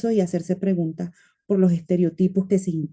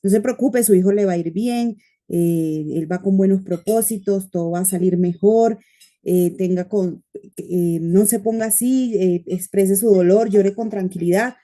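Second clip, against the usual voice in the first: reassuring. Retold or imitated. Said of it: "darle un abrazo fuerte y decirle".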